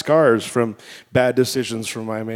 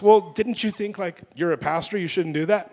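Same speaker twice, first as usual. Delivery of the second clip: lightly imitated reproachful wife; higher, questioning retold rebuke; scolding wife; 4 semitones higher, 3 dB louder than usual. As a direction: act out a wife's pointed question. Wife's scolding question, acted out.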